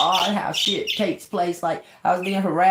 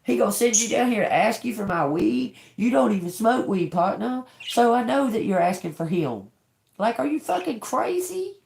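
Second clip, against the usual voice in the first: high, fast retold angry rant; replaying the blow-up at the guy, higher and quicker; heated retold outburst, higher pitched; acting up; 6 semitones higher than usual. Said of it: "I was like / I acted up".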